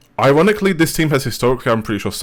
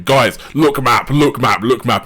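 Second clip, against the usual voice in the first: loud, raised callout, drawn out at first; retold shouting; 4 semitones higher, 7 dB louder, slower than usual. Player shouting a map callout to teammates, retold shouting. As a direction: imitate a player yelling to teammates. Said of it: "he just starts shouting".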